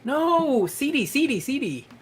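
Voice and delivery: high, insistent C D, C D; hammering the letters C D; emphatic correction. Real, not acted. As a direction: repeat C D to set them straight. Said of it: "I thought you were saying Apple T V".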